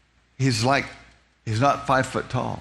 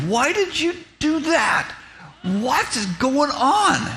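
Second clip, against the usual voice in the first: frantic protest; 8 semitones higher than usual. Retold or imitated. Panicked outburst at God.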